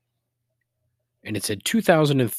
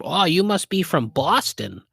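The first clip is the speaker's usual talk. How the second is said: lightly mocked nosy stranger, pitched up; a touch of mock discovery, higher; 5 semitones higher than usual. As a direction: mildly imitate someone spotting an accent. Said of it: "every time you go somewhere and some".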